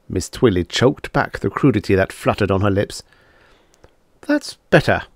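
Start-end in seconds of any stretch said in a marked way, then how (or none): 4.3-5.0 approving. Acted. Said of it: "Lif said approvingly".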